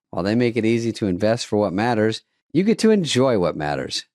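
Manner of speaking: smooth sponsor read. Acted. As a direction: read it like a radio ad. Reads sponsor ad.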